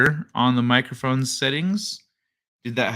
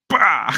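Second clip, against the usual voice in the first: sudden punch sound effect; imitated punch noise; 3 dB louder than usual. Streamer acting out the punch to the face, imitated noise. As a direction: burst out a short mock impact.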